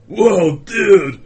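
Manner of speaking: surfer dude voice; loud stoner dude drawl; Keanu Reeves impression. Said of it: "Keanu Reeves trying to put on a British accent".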